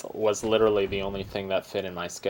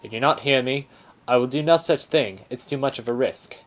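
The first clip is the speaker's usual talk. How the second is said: Aussie bear voice; 3 semitones higher than usual. Acted. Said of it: "This is an Aussie bear".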